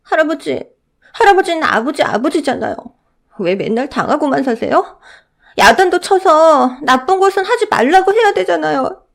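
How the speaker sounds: put-on very high, pleading child's voice; a child begging grandpa to stand up; earnest little boy. Boy pleading with his grandfather, high and earnest.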